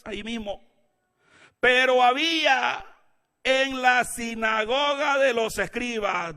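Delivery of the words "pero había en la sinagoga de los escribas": loud, high, drawn-out reading; emphatic scripture reading. Real, not acted. Preacher reading Mark to the congregation, emphatic scripture reading. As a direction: proclaim the verse slowly and loudly.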